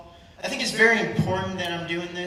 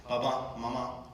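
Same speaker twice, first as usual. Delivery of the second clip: low, soft retold apology; hushed, contrite son; subdued apology; 6 semitones lower, 10 dB quieter than usual. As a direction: apologise quietly to your parents. Retold apology to his parents.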